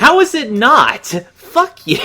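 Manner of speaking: squeaky high indignant yelp; mock outrage. Real, not acted. Co-reader defends metal as a love ballad, high indignant yelp.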